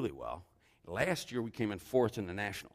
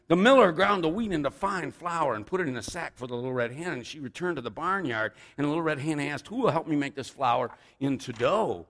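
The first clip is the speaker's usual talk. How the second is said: lively read-aloud storytelling; animated picture-book reading; story narration; 5 semitones higher, 6 dB louder than usual. A narrator's reading. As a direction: read it like a tale for little children. Reads a children's story aloud.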